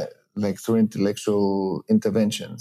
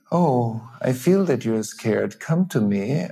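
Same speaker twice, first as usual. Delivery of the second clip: empathic invitation. Shown as a demonstration. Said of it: "Or I say".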